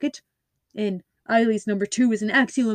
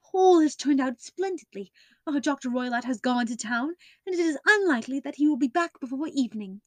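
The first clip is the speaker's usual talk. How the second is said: higher breathless excitement, speeding up; eager relief; 4 semitones higher than usual. Acted. Miss Stoner tells Holmes the good news in a rush of higher eager voice.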